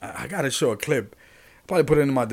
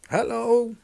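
emphatic hello; 10 semitones higher, 3 dB louder than usual. Real, not acted. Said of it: "are you with me over here".

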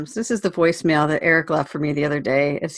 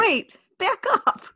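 surprised; 13 semitones higher, slower than usual. Real, not acted. Startled by manure listings.

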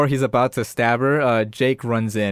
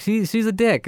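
high-pitched doll's complaint; justifying killer doll; 10 semitones higher than usual. Retold or imitated. Chucky blaming the mean sister, self-justifying. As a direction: voice the doll making his case.

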